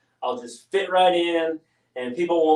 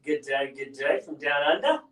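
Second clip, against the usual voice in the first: lightly put-on Australian accent, a bit softer; a playful try at Australian, lowered voice; mock Australian accent; 5 dB quieter than usual. Greeting the stream in a lightly put-on Australian accent. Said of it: "I'm getting better with my accent".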